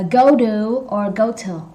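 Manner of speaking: "go do" with duh, then "go to" with tuh; American or British reduction. Shown as a demonstration. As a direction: contrast go-duh against go-tuh. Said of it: "Maybe they have American accent".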